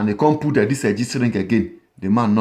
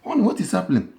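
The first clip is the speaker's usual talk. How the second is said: woman's voice; 5 semitones higher, 3 dB quieter, faster than usual. Retold or imitated. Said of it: "The woman come say".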